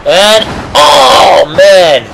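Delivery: commentator's rising cry of amazement; excited reaction. Real, not acted. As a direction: react as a big move lands. Reacting to a wrestling move.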